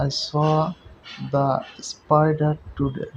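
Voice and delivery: "I saw the spider today" said very slowly, "the" drawn out as "di"; "the" stressed as a long "di". Shown as a demonstration. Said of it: "নির্দিষ্ট এবং জোর দেওয়া বোঝাচ্ছে".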